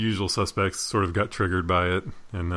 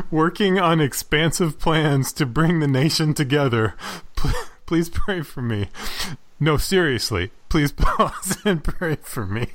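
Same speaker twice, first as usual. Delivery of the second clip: mock earnest tweet; 4 semitones higher, slower than usual. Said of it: "B J Thompson tweeted".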